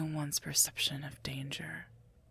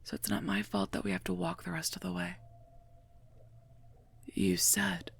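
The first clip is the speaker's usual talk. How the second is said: raised voice, defensive and fed up; exasperated; 3 semitones higher than usual. Acted. Guard argues with a royal over having to walk, exasperated.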